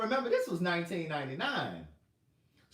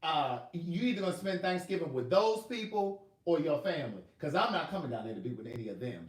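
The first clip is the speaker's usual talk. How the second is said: mother's ultimatum; 2 semitones higher, 4 dB louder than usual. Retold or imitated.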